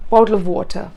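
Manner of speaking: "Bottle" lightly stressed, "of water" falling; a light lift on "Bottle"; slight stress on bottle. Shown as a demonstration. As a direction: tap "Bottle" gently, don't overdo it. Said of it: "Slight stress without giving too much attention".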